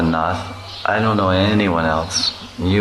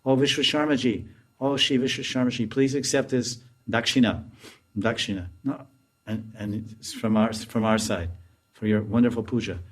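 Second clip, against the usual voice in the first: fawning Jatila; 3 semitones higher, 7 dB quieter than usual. Retold or imitated. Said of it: "Jatila said".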